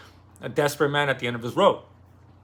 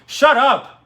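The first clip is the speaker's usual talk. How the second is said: sharp loud yell at the cat, much higher; real yell; 12 semitones higher, 9 dB louder than usual. Real, not acted. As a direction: bark it at a pestering cat. Yelling at cat to stop.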